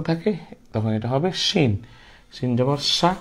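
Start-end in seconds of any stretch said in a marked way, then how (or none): 2.3-3.1 সা said as 'sha', with a hushing sh; rushing sh sound. Shown as a demonstration. Teacher models the three-dotted letter, সা as hushing 'sha'. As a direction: make শিন and সা rush like wind, 'shin, sha'. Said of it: "শন শন আওয়াজের হবে".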